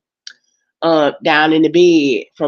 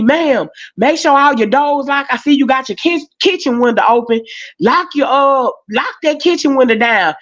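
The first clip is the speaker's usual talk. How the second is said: higher, urgent cop warning; police officer warning; 6 semitones higher than usual. Retold or imitated. Police warning her to lock up, urgent. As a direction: sound like a worried officer. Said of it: "they telling me".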